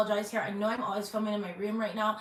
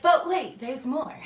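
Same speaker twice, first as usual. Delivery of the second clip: hyped-up TV pitchman, higher and louder; infomercial voice; 5 semitones higher, 6 dB louder, slower than usual. Pretend. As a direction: sell it like a late-night ad. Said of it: "I sound like a fucking infomercial".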